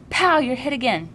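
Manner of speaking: high, loud bang then a call; mock gun shout. A narrator's reading. Asher calls Jonas out in the game, yelling. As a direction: fire and call the hit. Boy calling out in war game.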